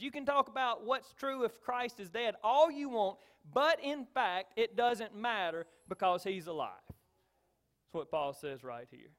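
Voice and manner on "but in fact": slow, louder but in fact, BUT stressed; emphatic. Shown as a demonstration. Preacher stressing Paul's words to the congregation, emphatic. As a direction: lean hard into but in fact. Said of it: "He says it with emphasis and vigor and excitement".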